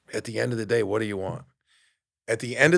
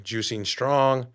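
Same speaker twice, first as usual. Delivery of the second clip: slow deliberate; much slower than usual. Shown as a demonstration. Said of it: "spelling out handle".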